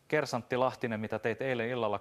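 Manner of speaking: the commander interrogates the sergeant, stern; sternly. Acted. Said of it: "komentaja kysyi ankarasti". (ankarasti kuulustellen)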